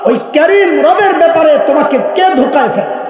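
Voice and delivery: high ringing call to mankind. Acted. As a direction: shout the divine call across the crowd. Allah's call, translated to crowd.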